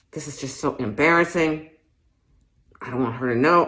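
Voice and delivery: flustered woman begging through a mask; embarrassed shopper. Acted. Masked shopper pleading with the clerk, flustered and mortified. Acts shopper in store monologue.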